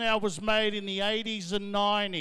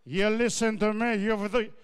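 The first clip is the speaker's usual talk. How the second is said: barking dad. Retold or imitated. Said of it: "Barking instructions at me".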